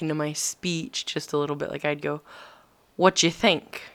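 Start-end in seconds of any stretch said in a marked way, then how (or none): 3.0-3.8 "What you think?" with the do dropped, British style; clipped British What you think; British slip. Retold or imitated. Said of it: "British accent ... slipping back".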